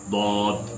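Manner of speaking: دوت with the lips rounded, then opened; rounded dawd demo. Shown as a demonstration. Teacher models the letter for students, rounded lips. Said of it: "اسے منہ گول کر کے پڑھنا ہے".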